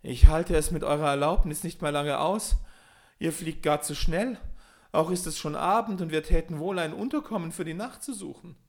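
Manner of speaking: high, loud and strained; exhausted groaning. A narrator's reading. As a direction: plead breathlessly, worn out. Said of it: "ächzte nach ein paar Stunden".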